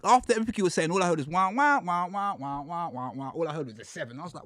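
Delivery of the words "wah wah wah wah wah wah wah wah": muffled talk noise. Retold or imitated.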